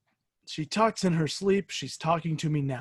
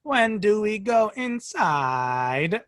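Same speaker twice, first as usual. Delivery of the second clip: put-on slow, sing-song robot child; robot mimicking child; 5 semitones higher, much slower than usual. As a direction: speak slowly with unnatural child-like tune. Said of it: "a robot trying to mimic a child".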